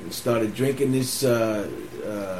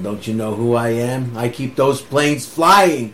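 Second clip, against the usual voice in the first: put-on drunk indignant demand; 5 dB louder than usual. Drunk demanding entry to base.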